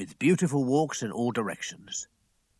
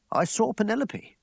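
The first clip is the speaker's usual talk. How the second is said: put-on bright young gentleman; 11 semitones higher, 3 dB louder than usual. Franklin answers Betteridge.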